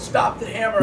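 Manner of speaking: imitated meltdown yell. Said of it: "he had that meltdown".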